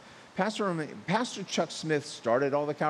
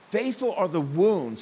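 "Faithful" stressed and a bit louder; emphasis on faithful; 3 semitones higher, 4 dB louder than usual. Shown as a demonstration. Preacher quoting Proverbs to his church, stressing "Faithful". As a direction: press on "Faithful" to open the verse. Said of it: "those are my emphasis".

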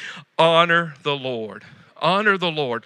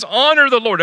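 proclaimed verse; 6 semitones higher, 5 dB louder than usual. Acted.

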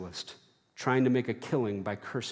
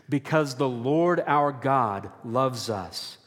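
slow, deliberate lead line; call and response; slower than usual. Shown as a demonstration. Preacher leading the church in a slow recited refrain. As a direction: lead the congregation in the refrain slowly. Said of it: "Let's say it again".

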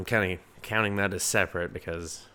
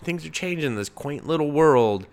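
mock wistful; 6 semitones higher, 4 dB louder than usual. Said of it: "you're just like".

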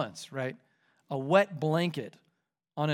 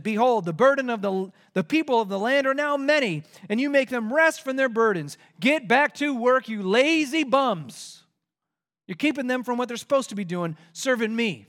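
louder, berating king; scolding Pharaoh; 5 semitones higher, 4 dB louder than usual. Acted. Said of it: "And Pharaoh said".

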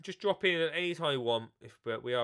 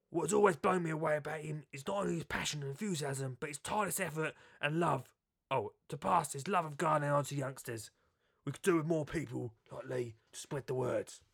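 Adam Frost impression. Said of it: "Weren't a good impression".

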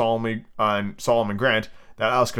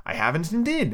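higher, gentle little voice; 6 semitones higher than usual. A narrator's reading. Alice denies eavesdropping to Humpty, gently. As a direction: deny it gently, without pushing. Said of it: "Alice said gently".

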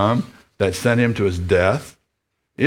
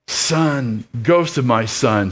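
trembling father; 2 semitones higher, slower than usual. Acted. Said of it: "his whiskers trembling".

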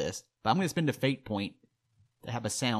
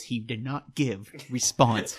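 mock note-taking; much slower than usual. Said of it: "I will not dignify that".

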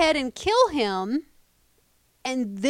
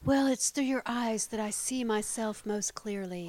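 mock tender confession, softer; schmaltzy sincerity; 6 dB quieter than usual. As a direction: lay the sentiment on thick but gently. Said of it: "Even that was too schmaltzy for me".

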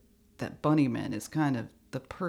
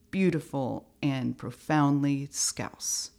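measured recital with deliberate pauses; poetry reading; slower than usual. Shown as a demonstration. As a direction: read it out as if it were poetry. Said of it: "Ready for this poetry about to drop".

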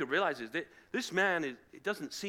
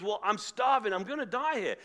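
higher, mock-starving plea; hammed-up desperation; 4 semitones higher than usual. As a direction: beg as if about to die, playfully overdone. Esau begging Jacob for food.

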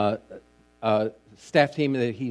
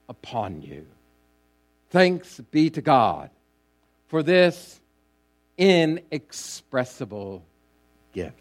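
scripture reading. Acted. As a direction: read scripture solemnly to a congregation, phrase by phrase. Reads scripture aloud to congregation.

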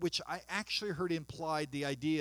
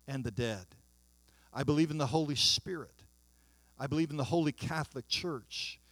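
reciting the creed; 2 semitones lower than usual. Acted. Pastor leading the congregation in the creed, measured recitation. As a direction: recite it like a daily confession.

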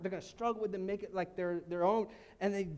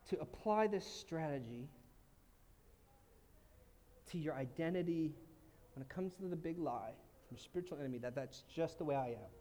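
much lower and softer; soft lowered delivery; 7 semitones lower, 7 dB quieter than usual. Real, not acted. Pastor speaking softly about the devil's lie. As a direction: draw them in quietly.

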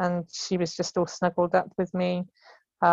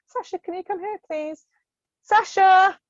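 terse, urgent; 12 semitones higher, 7 dB louder than usual. Retold or imitated. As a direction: summon a colleague, more urgent each time. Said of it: "getting a little bit more terse and a little bit more urgent".

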